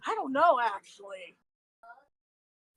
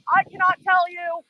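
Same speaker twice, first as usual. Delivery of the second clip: raised, higher voice over the wind; shouting over wind; 5 semitones higher, 5 dB louder than usual. Real, not acted. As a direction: call out over the roaring wind.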